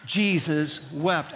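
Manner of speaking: slow, deliberate "Jesus wept" with each word drawn out; slow unison recitation of "Jesus wept"; said together with the congregation. Shown as a demonstration. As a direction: lead the room in "Jesus wept", slow and even. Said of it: "Would you say it with me?".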